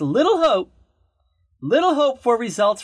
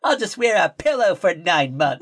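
high, whiny sitcom wife; Lucille Ball impression; 6 semitones higher than usual. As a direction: whine at Ricky like Lucy. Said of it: "She's like".

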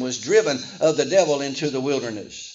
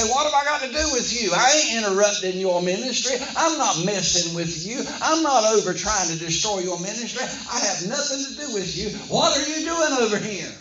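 higher-pitched, lightly acted indignation; indignant protest; 3 semitones higher than usual. Preacher voices devil protesting to Jesus, mildly indignant. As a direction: protest your innocence, rising at the end.

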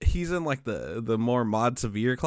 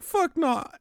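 put-on kid yelling. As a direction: squeal it like an angry kid. Kid swearing at the teacher.

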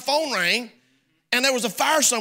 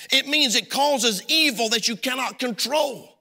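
preaching emphasis; 4 semitones higher than usual. Real, not acted. Preacher raising voice.

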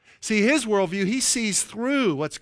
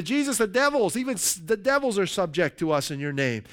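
excited disciples; 2 semitones higher than usual. Retold or imitated. Disciples telling Jesus about their authority, a touch excited. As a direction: pitch jumps up on the first words, then settles. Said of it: "they're excited".

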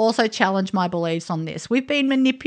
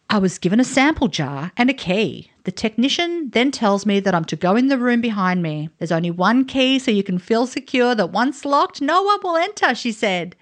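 measured reading of a blog post; lightly performed storytelling read; reading aloud; 3 semitones higher than usual. Acted. Reads aloud from guest's blog.

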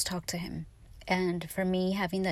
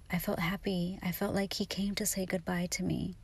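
whispered, tender and hushed; soft whisper; 6 dB quieter than usual. Real, not acted. Whispering to viewers about grandpa's dream, hushed and tender. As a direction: breathe it out like a secret.

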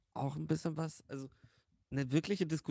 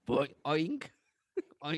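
cartoon sound effects; 2 semitones higher, 3 dB louder, much slower than usual. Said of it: "Ich mach so lustige Soundeffekte".

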